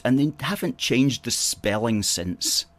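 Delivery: ordinary talk, nothing marked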